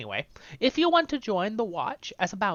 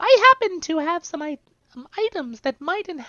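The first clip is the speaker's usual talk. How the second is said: put-on hobbit-like girl character voice, louder; 7 semitones higher, 7 dB louder than usual. Voicing a character who welcomes a patron and offers items, girl voice mixed with Hobbit voice. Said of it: "I mixed the girl voice with the Hobbit voice".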